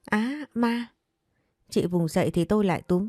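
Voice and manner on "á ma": sudden high shriek of fright; frightened scream. A narrator's reading. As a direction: cry out in terror, pitched high. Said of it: "Chị hoảng quá hét lên".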